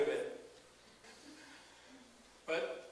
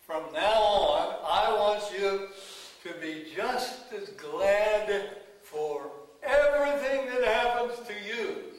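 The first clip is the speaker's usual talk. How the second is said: voice of God, commanding; 3 semitones higher, 5 dB louder than usual. Retold or imitated.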